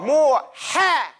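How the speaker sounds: breathy Arabic "Ha" drawn from the throat; emphatic letter demo. Shown as a demonstration. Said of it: "I want you to".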